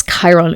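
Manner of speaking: Chiron said as KY-ron; English pronunciation. Shown as a demonstration. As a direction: give Chiron its English KY opening. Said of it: "the correct way to say it in English".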